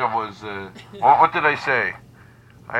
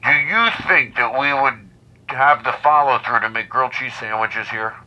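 toy megaphone. Pretend. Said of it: "through this megaphone".

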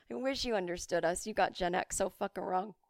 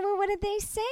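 shrill retold question; 13 semitones higher, 3 dB louder than usual. Retold call to dad.

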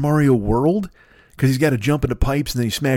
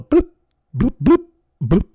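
high loud bloop noises; Pong bloops; 10 semitones higher, 4 dB louder than usual. Retold or imitated. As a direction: chirp the bloops like an old game. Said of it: "played some Pong".

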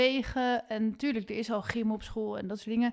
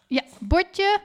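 higher, pet-talk voice; talking to a dog; 8 semitones higher, 7 dB louder than usual. Real, not acted. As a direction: call the dog over sweetly. Calling the dog for its plate. (praten tegen de hond)

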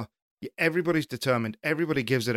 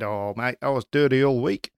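imitating a rugby captain's New Zealand accent; 3 dB louder than usual. Pundit quoting the losing rugby captain after defeat, in New Zealand accent. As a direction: put on a Kiwi accent, lifting the last phrase. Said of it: "great New Zealand accent there".

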